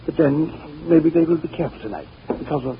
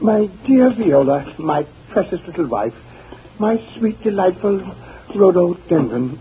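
sarcastic endearments; 3 semitones higher, 4 dB louder, slower than usual. Acted. Husband silencing wife sarcastically.

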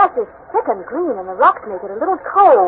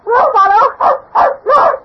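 excited calling; 8 semitones higher than usual. Acted. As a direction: hurry after the dog. Chasing the running dog.

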